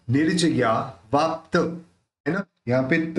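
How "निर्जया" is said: निर्जया with the r sounded as "nir-ja"; रेफ र के साथ. Shown as a demonstration. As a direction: close the first syllable of निर्जया on r. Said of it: "वो र के साथ रहेगी". (निर्जया में रेफ का र)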